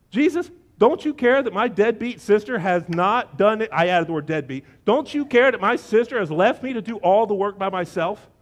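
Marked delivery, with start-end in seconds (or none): 0.1-3.7 loud, aggrieved tattling; mock indignant complaint. Martha blames her sister to Jesus, mock indignation. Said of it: "She throws her sister under the bus". 4.8-8.3 loud, worked-up grievance; mock indignant complaint. Martha complains to Jesus about her sister, mock indignation. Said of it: "she's just getting warmed up".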